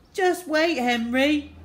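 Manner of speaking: put-on high, loud tearful child; sobbed threat. A narrator's reading. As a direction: wail a threat through mock sobs. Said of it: "sobbed William".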